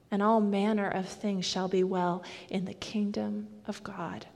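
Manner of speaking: soft, measured words of comfort; hushed, tender benediction; Jesus reassuring gently. Retold or imitated. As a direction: reassure quietly, pausing between phrases. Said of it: "hear him say to us".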